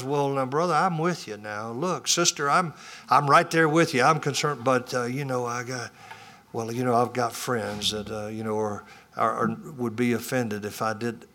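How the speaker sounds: hesitant pastor. Retold or imitated. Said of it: "your pastor says".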